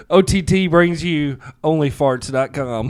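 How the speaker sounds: slow mock commercial read; ad announcer. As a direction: announce it like a cheesy ad.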